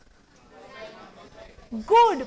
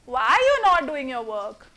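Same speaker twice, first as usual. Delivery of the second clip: lower, relaxed, offhand; casual tone; 4 semitones lower than usual. Shown as a demonstration. Teacher showing a casual tone used with a friend. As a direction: ask it lightly like to a friend. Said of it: "This is casual".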